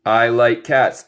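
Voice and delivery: I like cats said slowly; teacher recap; slow model. Shown as a demonstration. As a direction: repeat it slowly for the class. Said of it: "también significa gustarse".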